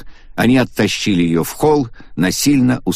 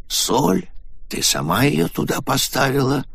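hesitant; 7 semitones higher than usual. A narrator's reading. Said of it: "нерешительно проговорил Ван".

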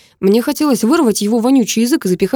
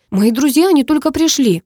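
put-on higher girl's voice, pleading to stay; protesting girl; 7 semitones higher, 4 dB louder than usual. A narrator's reading. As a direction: voice the girl, louder, begging to stay. Karina protests leaving the party. (девичий голос, громче и выше, с мольбой)

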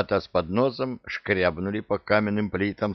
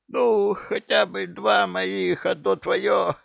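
much higher, slow, strangled wheeze; wheezed; 12 semitones higher, slower than usual. A narrator's reading. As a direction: squeeze it out while being choked. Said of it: "просипел он".

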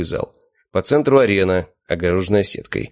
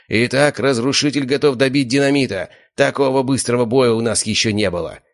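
straining announcer; 6 semitones higher than usual. A narrator's reading. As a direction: push the voice hard. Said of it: "распинался ведущий, напрягая голосовые связки".

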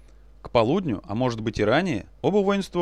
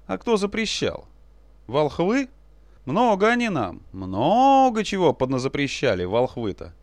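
sly and bold; 3 semitones higher than usual. Acted. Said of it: "с лукавой удалью".

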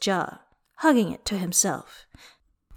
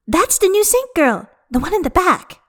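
excited whisper-gasp; 10 semitones higher than usual. A narrator's reading. Gasps, points out saint girl.

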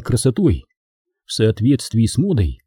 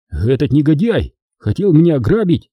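exclaiming; 4 semitones higher than usual. Acted. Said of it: "воскликнул Натаниэль".

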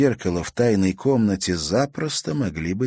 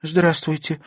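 surprised; 9 semitones higher than usual. Acted. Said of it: "удивлённо произнесла она".

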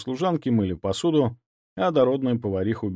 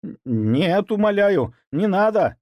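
stuttering, much higher, louder begging; wailing plea; 10 semitones higher, 4 dB louder, slower than usual. Acted. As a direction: howl for mercy. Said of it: "взвыл он". (взвыть, умоляя)

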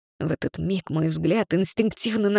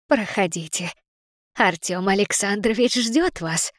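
friendly woman's voice. Acted. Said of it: "приветливый женский голос".

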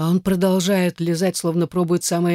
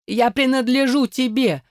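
furious bark; 8 semitones higher than usual. A narrator's reading. Captive forced to submit, barking it in fury. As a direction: throw the words at him in rage. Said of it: "рявкаю я со всей злостью".

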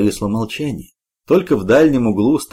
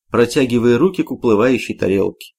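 usual speaking voice

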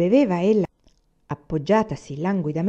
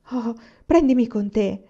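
ardent plea; 4 semitones higher, 3 dB louder than usual. Acted. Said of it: "ella propose con ardore".

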